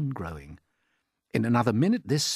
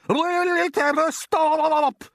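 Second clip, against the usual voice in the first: a much higher, louder put-on aunt's voice, excited; Aunt Sponge; 9 dB louder, much slower than usual. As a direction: play the greedy aunt gaping at the peach. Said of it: "Aunt Sponge shouted".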